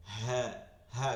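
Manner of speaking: "হা" with no breath escaping; short, voiced "হা" without any rush of air; airless, deep ha. Shown as a demonstration. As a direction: voice "হা" firmly from the chest, no air. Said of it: "কোনো বাতাস আসবে না".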